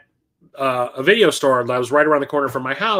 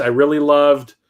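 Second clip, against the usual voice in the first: ordinary talk, nothing marked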